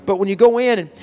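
driving sermon delivery, punching key words; insistent revival-preacher projection; emphatic preaching. Real, not acted. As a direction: preach it with rising urgency.

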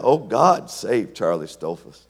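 loud cry then slow plea; repeated prayer. Retold or imitated. Old man praying for Charlie again and again. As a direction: plead with God, slowing on save. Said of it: "he said this is over and over again".

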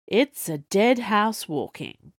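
measured tone. Acted. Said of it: "Fordyce said in a measured tone".

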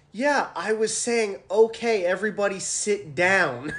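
lightly mocking captain explaining; a hint of a patient captain; imitating the captain. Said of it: "he goes".

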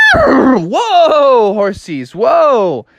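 loud, high whoa to horses; calling out. A narrator's reading. Froggy riding into town, calling high to his horses. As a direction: rein them in with a high cry.

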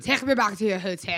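mock German accent. Comic showing friend the director's line, mock German accent. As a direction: lightly put on a German accent. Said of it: "That sounds more German".

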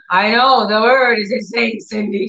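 mock exasperation, pushed out then easing off; angry. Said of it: "She got, you know, angry".

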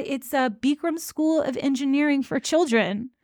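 Bikram's line, half laughed out; laughing through quote. Retold or imitated. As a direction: quote dissolving into giggles. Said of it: "And he says".

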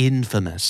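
infamous stressed on the first syllable, IN-famous; a second slow model of infamous; correct pronunciation. Shown as a demonstration. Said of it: "มันออกเสียงอย่างนี้". (ออกเสียง infamous เน้นพยางค์แรก)

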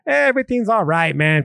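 put-on hint at a blissed-out drunk's easy comfort; drunk or high. Speaker mimics the fake love of alcohol, mildly put-on tipsy voice. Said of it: "feeling associated with being drunk or high".

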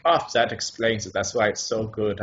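lightly voiced, approving German accent. German gentleman praising the actor, German accent. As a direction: accept it graciously in a German accent. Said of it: "how to do your German accent".

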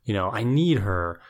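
mock desperate pleading. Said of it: "turn it up and be like".

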